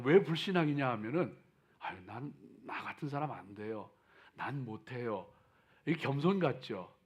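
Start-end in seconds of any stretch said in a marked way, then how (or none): 1.8-5.3 soft, meek voice of excuses; timid self-doubting whine. Retold or imitated. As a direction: sigh it out like a reluctant believer. Believer's timid excuse acted.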